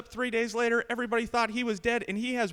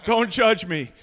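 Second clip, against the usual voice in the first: mock defensive; 6 dB louder, slower than usual. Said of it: "I'm not messing with it".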